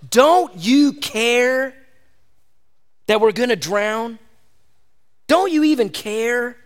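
desperate disciples' plea. Acted. Frightened disciples crying out to Jesus, pleading. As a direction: beg like you're about to sink. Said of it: "and they said".

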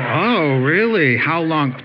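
hammed-up surprised gush; exaggerated wide-eyed wonder; mock surprise. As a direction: gasp it out, impressed and nosy. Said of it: "And they go".

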